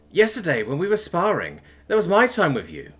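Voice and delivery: high, loud tearful complaint; starting to sob. A narrator's reading. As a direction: wail the grievance as tears start. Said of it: "beginning to sob uncontrollably".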